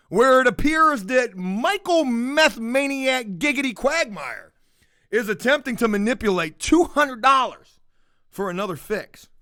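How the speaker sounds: hammed-up breaking-news read; mock news report. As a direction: cut to the scene like a field report. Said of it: "Let me mute this real quick".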